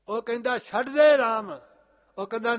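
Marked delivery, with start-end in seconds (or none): 0.6-1.6 loud, slow, shouted order; angry command. Acted. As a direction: bellow the order like a tyrant. King orders Prahlad, acted quote.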